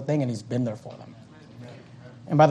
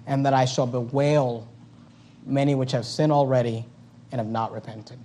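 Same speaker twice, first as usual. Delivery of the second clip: soft, tender reading; 3 semitones lower, 5 dB quieter than usual. Acted. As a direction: quietly grieve over the words. Quiet reading of same verse.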